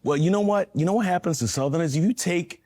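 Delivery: put-on American Southern accent. Shown as a demonstration. Actor answering hosts' request for a Southerner, put-on Southern accent. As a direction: play an American Southerner explaining something. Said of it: "if I'm being a Southerner".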